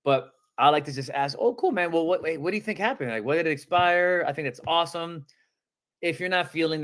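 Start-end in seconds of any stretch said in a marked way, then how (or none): 1.4-5.3 excited. Shown as a demonstration. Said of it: "you have to sound excited here".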